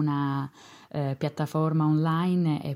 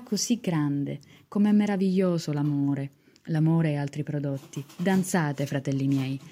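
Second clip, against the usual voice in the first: theatrical swelling poetry reading. Acted. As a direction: declaim it with rising passion. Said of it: "vi leggo una poesia".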